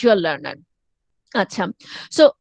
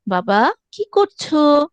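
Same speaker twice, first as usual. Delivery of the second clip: motherese singsong; 3 semitones higher than usual. Acted. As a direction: stretch the words tunefully, as to a toddler. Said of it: "টেনে টেনে সুরে সুরে কথা বলি". (বাচ্চার সাথে টেনে টেনে, সুরে সুরে)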